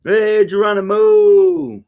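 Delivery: slow, stretched and loud hey Geronimo; drawn-out greeting. Real, not acted. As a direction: call the name out long and loud.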